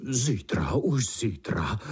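gloating spider. Acted. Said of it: "mnul si ruce pavouk".

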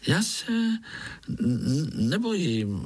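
high, stammering, scared little voice; thin little voice. A narrator's reading. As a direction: stammer it out, pretending not to be afraid. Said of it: "řekl Pája tenkým hláskem". (tenký vystrašený hlásek s koktáním)

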